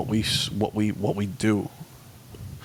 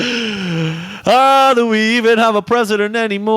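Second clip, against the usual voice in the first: mock Filipino accent; 6 semitones higher, 5 dB louder than usual. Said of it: "Why are you doing a Filipino accent?".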